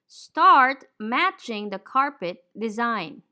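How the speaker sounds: slow, careful "Start" and "carpet" with open ah; slow model sentence. Shown as a demonstration. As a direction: read slowly so learners can copy each vowel. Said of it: "we say".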